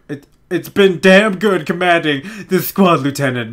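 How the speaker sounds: solemn commander. Acted. Reading commander's farewell dramatically.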